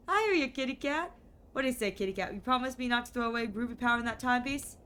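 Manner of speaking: lightly voiced hip seventies charmer; a hint of a laid-back groovy cat; groovy smooth talker. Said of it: "Charles doesn't call me baby".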